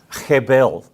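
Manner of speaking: "hebel" with a throaty kh at the start; Australian attempt at Hebrew "hebel"; Aussie-accented Hebrew. Shown as a demonstration. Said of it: "say it with an Aussie accent".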